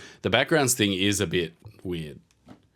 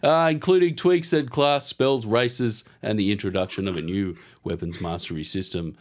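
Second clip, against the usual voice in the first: ad read voice; 5 semitones higher than usual. Pretend. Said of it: "You sounded like a rugby commentator".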